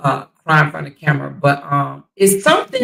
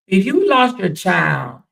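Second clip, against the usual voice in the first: slow; slower than usual. Real, not acted. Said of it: "repeated question".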